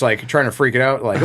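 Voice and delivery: ordinary delivery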